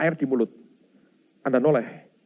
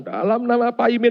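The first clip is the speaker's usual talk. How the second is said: mocking rebuke; 10 semitones higher, 5 dB louder than usual. Mock wrong name in the command.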